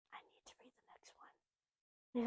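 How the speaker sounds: slow whispered aside. Real, not acted. Planning her reading, whispered aside. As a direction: whisper it to yourself, slowly.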